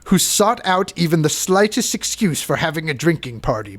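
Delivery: a vague, half-hearted fake European accent on the quote; lightly faked European accent reading an old historian. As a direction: read the quote in a bad put-on European accent that isn't really German. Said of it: "Pardon my fake accent".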